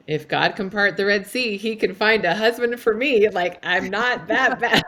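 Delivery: reciting a mantra. Retold or imitated. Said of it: "have this mantra".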